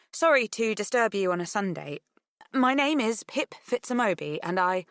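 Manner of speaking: tentative on the phone; nervous young woman. Acted. Pip on the phone.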